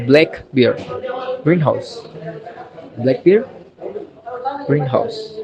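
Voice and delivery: BLACK and GREEN stressed in "black bear, greenhouse"; "black bear, greenhouse" as compound nouns, first part strongest. Shown as a demonstration. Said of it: "the stress is on the first part".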